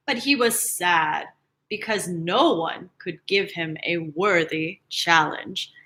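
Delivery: slow, grand storybook opening; slow epic tale voice; story narration. A narrator's reading. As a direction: read it like an epic legend.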